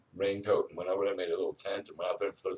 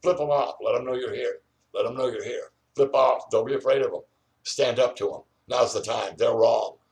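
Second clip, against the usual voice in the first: rallying call; 3 semitones higher, 6 dB louder than usual. Real, not acted. Urging viewers to defy helicopters.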